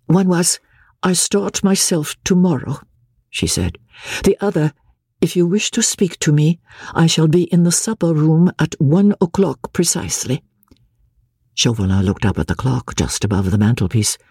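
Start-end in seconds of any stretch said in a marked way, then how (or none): 0.1-10.4 higher, level and even, emotion held down; even mechanical tone. Acted. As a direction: recite it like a machine, numbed. Marguerite repeating the note.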